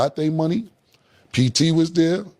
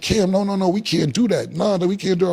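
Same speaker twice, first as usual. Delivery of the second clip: mock pleading promoter voice, higher; imitating the festival guys begging him, pitched higher; 5 semitones higher than usual. Cam mimics promoters begging him to play, in a higher pleading voice.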